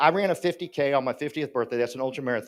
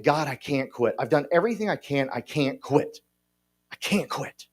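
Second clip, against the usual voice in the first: desperate plea; 2 semitones lower, 3 dB quieter than usual. Retold or imitated. Crying to God, desperate.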